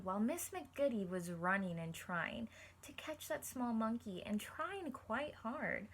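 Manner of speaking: steady storybook read for the class; reading aloud to children. Acted. Teacher reading a picture book to her class, storybook voice. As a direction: read it like story time for kids.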